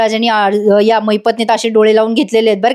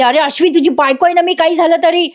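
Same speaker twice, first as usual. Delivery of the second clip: mock yelled appeal; 5 semitones higher than usual. Priya appeals to her husband, high mock yell. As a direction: imitate a wife crying out to her husband. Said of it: "Priya आता मोठ्यानं ओरडते".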